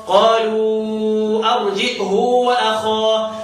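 drawn-out Quranic reciting; tajweed-style slow chant; slow recitation. Shown as a demonstration. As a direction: recite slowly, stretching the vowels. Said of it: "repeated recitation demo".

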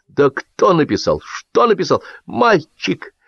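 high-pitched lament; mild acted woe; sorrowful, forced out. A narrator's reading. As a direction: squeeze out each grievance. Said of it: "горестно выдавил Лисипедов".

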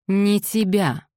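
restrained anger through teeth; through gritted teeth. A narrator's reading. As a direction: grind it out slowly. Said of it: "произнёс Колин сквозь зубы".

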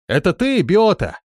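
high, loud call down the well. A narrator's reading. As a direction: shout the question down into the well. Calling down the well.

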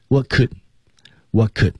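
"could" with oo reduced to uh after "what"; "what could" with a short, reduced second word; weak form. Shown as a demonstration. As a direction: run "what could" together, weakening "could". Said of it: "乌读成呃".

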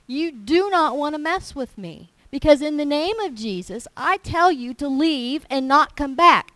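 rebuking the hailstorm in the name of Jesus, rising to a loud command; angry rebuke. Retold or imitated. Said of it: "I got mad".

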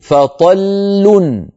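فطل very slow, leaning hard into the doubled l; فطل drawn out with a stressed double l; doubled lam on pause. Shown as a demonstration. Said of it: "لام ساكنة تتلوها لام مضمومة".

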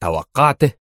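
هتاف غاضب مستنكر; angry indignant exclaim. A narrator's reading. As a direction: fling it back in disbelief. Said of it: "هتف غاضبا مستنكرا".

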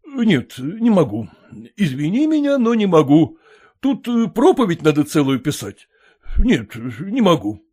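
a surprised landowner asking back; puzzled master. Acted.

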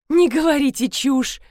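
sharp, offended rebuke; indignant. A narrator's reading. Марина defends her husband, indignantly rebuking Георгий. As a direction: snap back, offended. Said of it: "возмутилась Марина".

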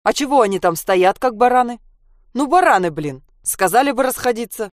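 loud, annoyed man complaining; indignant grumble. Acted. A man in a fox hat complains loudly about the crowd. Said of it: "возмутился".

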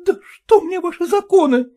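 voiced wife, defiant; defiant young wife. A narrator's reading. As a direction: toss the laws aside. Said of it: "отвечала Катерина Петровна".

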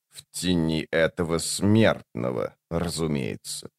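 low, slow, very soft monster voice; creature voice. A narrator's reading. The creature speaks.

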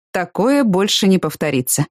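slow, a touch of remorse; contrite. Acted. Danny apologises to her, slow and contrite. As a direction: say it slowly, regretting. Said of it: "сокрушенно произнёс он".

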